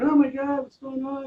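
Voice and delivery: high-pitched mock scream of alarm; imitated scream. Nurse reacting as the X-ray table tilts, imitated high scream. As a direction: retell a panicked nurse's cry, voice jumping way up. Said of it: "the nurse started screaming".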